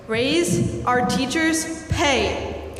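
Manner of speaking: very slow, every word weighted; slow emphatic demand. Real, not acted. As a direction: land each word slowly. Student demands board raise pay.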